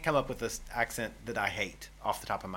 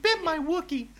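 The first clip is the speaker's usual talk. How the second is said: laughing. Real, not acted. Punning joke, laughing.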